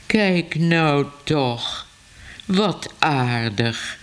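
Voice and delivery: very slow, lightly voiced delighted older man; drawn-out fond admiration, lightly acted; Mr Smit's voice. Smit admires cats in Ellemeet's car, slow charmed voice. Another man's voice behind him.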